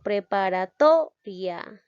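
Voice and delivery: "preparatoria" slowed, with TO loud and held; stress on TO. Shown as a demonstration. Teacher showing the last example, slow stress on TO in "preparatoria". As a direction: lean hard and long on TO in "preparatoria". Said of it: "Aquí suena más la sílaba to".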